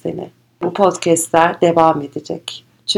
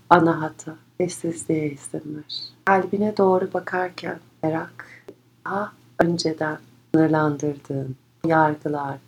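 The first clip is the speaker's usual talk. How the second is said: guided meditation; 4 dB quieter than usual. Acted. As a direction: guide them gently inward.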